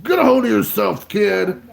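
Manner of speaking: retold dad yelling. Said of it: "shaking me and screaming at me".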